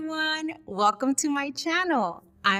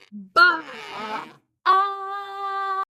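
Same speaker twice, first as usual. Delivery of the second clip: sheep baa; 7 semitones higher than usual. Shown as a demonstration. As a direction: bleat out like a sheep. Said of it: "Let's try all together".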